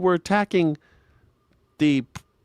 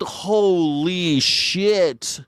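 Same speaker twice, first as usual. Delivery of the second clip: astonished; much slower than usual. Real, not acted.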